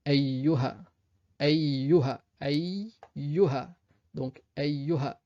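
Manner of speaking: ayyuha avec le yy appuyé; doubled y. Shown as a demonstration. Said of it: "Ici, sur le ya". (ayyuha, bien doubler le y)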